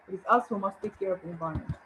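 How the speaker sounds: fast, lighter run-through with "us" still marked; brisk restatement of the sentence; quick repeat. Shown as a demonstration. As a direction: rattle it off quickly, just touching "us". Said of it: "here I'm using it for emphasis".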